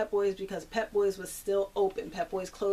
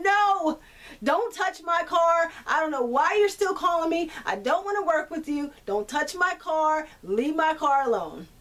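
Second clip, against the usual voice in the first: retold angry refusal; 6 semitones higher than usual. Retelling how she told the unwanted tow driver off, raised and angry. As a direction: replay telling the tow driver off, pitched up.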